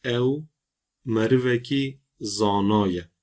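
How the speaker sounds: slow Kurdish reading, long A's in zanaye; careful Kurdish sentence; Kurdish pronunciation. Shown as a demonstration. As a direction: read ev merveki zanaye slowly with long A's. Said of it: "şu Kürtçe cümleye bakalım".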